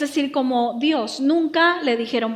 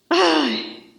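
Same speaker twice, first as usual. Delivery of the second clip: squeamish "ay"; 2 semitones higher than usual. Acted. Mimicking squeamish Christians avoiding contact.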